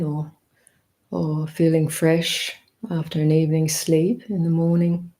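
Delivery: unhurried meditation guidance, a touch fuller; guided meditation. Acted. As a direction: open the meditation gently, inviting everyone in. Begins leading the meditation.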